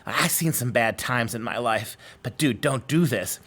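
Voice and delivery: a jaded devil who has seen it all, warning gently; world-weary demon. Retold or imitated. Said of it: "this jaded, world-weary demon says to him".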